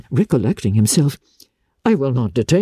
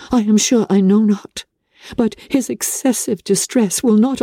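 an anxious sister's letter, read a touch higher; reading Jane's letter; 5 semitones higher than usual. Acted. Jane writes to Lizzie of Lydia's elopement, worried, earnest. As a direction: read it as Jane writing home in distress.

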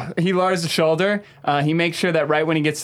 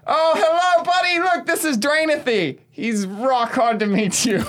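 high-pitched greeting to a little pal; hammed-up sweet, eager voice; cheery introduction; 9 semitones higher than usual. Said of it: "and I'm like".

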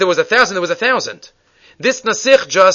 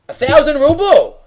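mock scream; 8 semitones higher than usual. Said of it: "He starts screaming at him".

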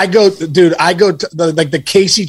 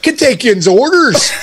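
put-on higher, slow Pittsburgh waitress accent; 7 semitones higher, slower than usual. Imitating the diner waitress taking orders in a higher, slow Pittsburgh accent. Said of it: "the lady's like".

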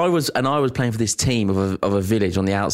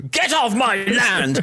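mock yell; 11 semitones higher, slower than usual. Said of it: "I'll just be like".

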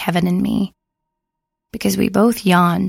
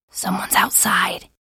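hushed, breathless whisper; slower than usual. Acted. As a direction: whisper it so no one outside hears. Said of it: "he said in a whisper".

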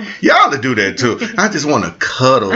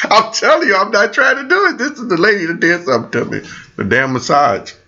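Morgan Freeman voice; 4 semitones higher than usual. Pretend. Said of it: "you sound like Morgan Freeman".

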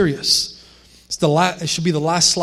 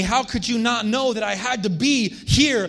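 put-on higher, earnest young Jesus questioning his mother; Jesus pleading with Mary; 5 semitones higher than usual. Young Jesus asking his mother Mary why she searched, earnest. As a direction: plead gently, wondering why she didn't know.

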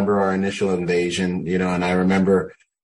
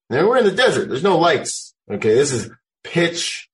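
higher, slow and awed; dramatic hush; 7 semitones higher than usual. Real, not acted. Veteran to podcast host about the night desert, awed and slow. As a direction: paint the total darkness, drawn out. Dramatic retelling of pitch dark.

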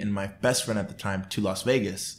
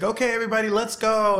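staffer calling the line; 12 semitones higher, 4 dB louder, faster than usual. Retold or imitated.

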